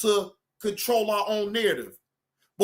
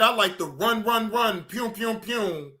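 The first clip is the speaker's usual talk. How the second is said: run pew chant; 5 semitones lower than usual. Shown as a demonstration. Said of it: "No, people like that".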